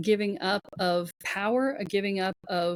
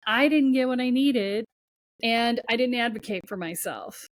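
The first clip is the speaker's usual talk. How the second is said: louder and higher, anger growing line by line; building indignation; 4 semitones higher, 3 dB louder than usual. Pretend. Voicing a fed-up inner self to the host, rising anger. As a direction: let the frustration swell until it's fed up.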